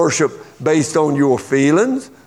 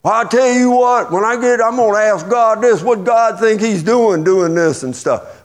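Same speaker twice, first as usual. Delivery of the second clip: mock complainer; 5 semitones higher than usual. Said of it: "we do the same thing with God".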